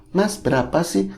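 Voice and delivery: put-on high, soft girlish question. Big man asks Kasman the price, imitated girlish voice. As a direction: imitate a man talking like a girl. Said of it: "Ngomongnya kayak cewek".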